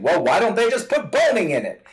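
voicing the absurd question with a giggle; laughing mock question. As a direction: laugh out the silly idea. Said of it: "would sound like me suggesting".

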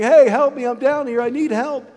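acted-out cry for help; retold yell for help. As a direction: call up from the bottom of a hole. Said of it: "so he starts yelling".

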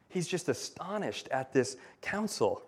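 normal talking voice

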